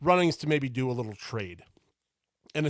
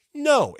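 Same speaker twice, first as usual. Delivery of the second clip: a sharp, much higher, louder no; blunt punchy no; emphatic no; 14 semitones higher, 9 dB louder than usual. Real, not acted. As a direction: slam the answer down. Answers own rhetorical question.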